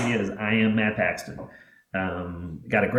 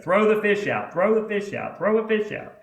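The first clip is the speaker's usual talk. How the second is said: panicked grandpa; 10 semitones higher than usual. Retold or imitated. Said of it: "my grandfather's freaking out".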